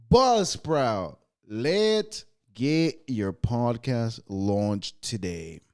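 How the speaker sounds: slow, drawn-out ad read. Acted. Podcast host reading the sponsor ad, slow and drawn out. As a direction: sell it like a radio spot.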